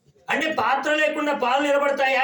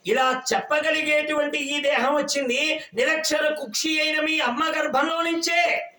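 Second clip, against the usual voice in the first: rising rebuke; 2 semitones higher than usual. Real, not acted. Preacher rebuking boastful son.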